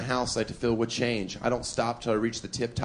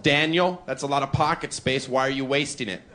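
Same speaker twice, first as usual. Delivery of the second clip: like the Lord. Retold or imitated. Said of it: "I speak to myself like I'm the Lord".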